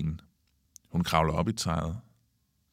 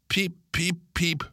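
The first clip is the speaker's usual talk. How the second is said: very high bird cheeps; calling out chirps; 10 semitones higher than usual. A narrator's reading. Kalle soaked and running from Pip, high chirps. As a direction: cheep it out as a taunt. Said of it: "råber Kalle og løber".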